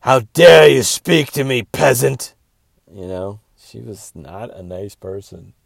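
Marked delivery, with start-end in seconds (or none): 0.0-2.3 louder, higher, hammed-up snooty voice; haughty snob. Comic mocking stuck-up performers, loud snooty sneer. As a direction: sneer down at a commoner. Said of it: "They're just like".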